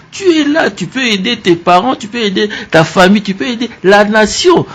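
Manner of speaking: rising to a shout, urging the youth; rousing exhortation. Real, not acted. Host rallying the young listeners, rising to a shout. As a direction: build it up into a call to action.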